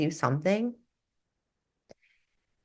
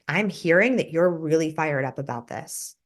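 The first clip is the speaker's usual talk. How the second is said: acknowledging. Shown as a demonstration.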